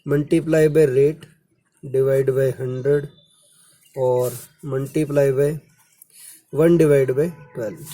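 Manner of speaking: very slow, word-by-word formula dictation; teacher dictating, each word spaced out. Shown as a demonstration. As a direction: spell out the formula slowly so students can write. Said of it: "formula लिख लो".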